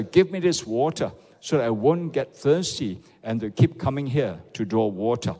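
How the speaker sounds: loud, robust group Bible reading; strong reading aloud. Real, not acted. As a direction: read out boldly with full voice. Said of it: "Come, let's read together".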